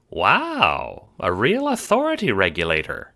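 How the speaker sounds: high, loud, awed little mayor; impressed mayor. A narrator's reading. Mayor meeting a real regulator, impressed.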